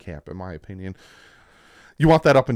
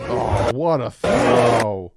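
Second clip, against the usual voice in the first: impressed; 8 dB louder, much slower than usual. Real, not acted. Admiring replay of a throw.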